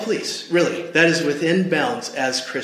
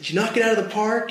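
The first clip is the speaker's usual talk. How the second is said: higher, eager mom voice; a mom bursting to hear the news; excited mom; 8 semitones higher, faster than usual. Retold or imitated. Mom greets her son home, higher and eager. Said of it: "she was excited".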